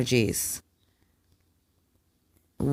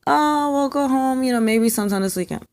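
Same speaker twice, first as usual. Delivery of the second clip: higher, airy, dismissive doctor imitation; mocking the doctor; 12 semitones higher than usual. Mother mimics the doctor who doubted her labor, mocking higher voice. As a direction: lightly parody a doctor brushing her off. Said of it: "I'm in labor".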